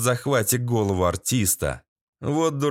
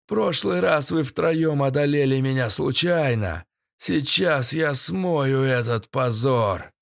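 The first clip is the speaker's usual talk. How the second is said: sneering panto villain; 2 semitones higher, slower than usual. Acted. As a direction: taunt him like a pantomime baddie. Villain Yurik challenges hero.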